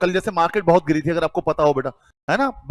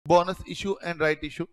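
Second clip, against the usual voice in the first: slow read-aloud; 3 semitones lower, 3 dB quieter, much slower than usual. Shown as a demonstration. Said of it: "आपको दिख रहा होगा बेटा".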